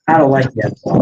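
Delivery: low, cold imitated dismissal; cold cutoff. Donald Trump cutting off Bolsonaro, cold. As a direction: cut him off coldly, voice dropped low. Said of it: "cuts him off dead cold and goes".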